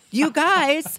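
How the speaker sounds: put-on high girlish whine; mock Claudia voice. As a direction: whine like a gushing model. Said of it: "she was like".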